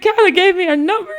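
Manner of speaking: high-pitched, overwhelmed crying squeal; imitated tearful excitement. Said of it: "So I'm just crying".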